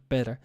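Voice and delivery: "better" with a light d-like tap for the t; American light sound. Shown as a demonstration. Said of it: "which is kind of light sound".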